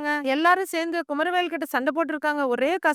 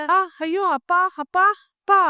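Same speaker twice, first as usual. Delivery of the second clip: shocked cry; 3 semitones higher, 6 dB louder than usual. Acted. Daughter sees father tied up.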